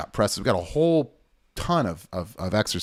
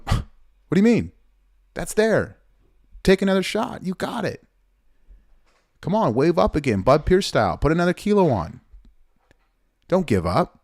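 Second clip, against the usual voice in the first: much higher, pushing excited urging; urging coach; 9 semitones higher than usual. Retold or imitated. Coach urging a lifter who wants to quit, much higher and excited. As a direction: fire the lifter up to take another shot. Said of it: "I'm sitting there going".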